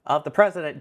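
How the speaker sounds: put-on a light Boston-crooner JFK accent; mock JFK accent. A teasing JFK-style Boston accent, parodying the moon speech. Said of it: "my accent of trying to do a bit of Boston".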